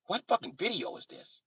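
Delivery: put-on high-pitched old white guy; old white guy impression. Old white guy watching the rap video, high baffled voice.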